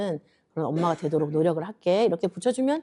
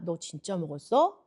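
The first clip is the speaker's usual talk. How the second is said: mild, unaccusing question; gentle questioning; 2 semitones lower, 4 dB quieter than usual. Acted. God asking Adam whether he really ate it, gentle questioning. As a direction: ask calmly, wanting to understand. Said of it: "물어보시고 그다음에".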